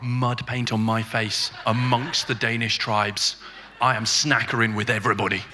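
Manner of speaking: a hint of hushed documentary narration, unhurried; David Attenborough. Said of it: "I am like David Attenborough".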